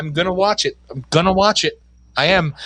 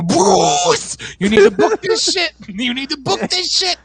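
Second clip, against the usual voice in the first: high booming loudspeaker call; PA announcement; 9 semitones higher than usual. Pretend. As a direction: boom it over the PA. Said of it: "go over the P A system and go".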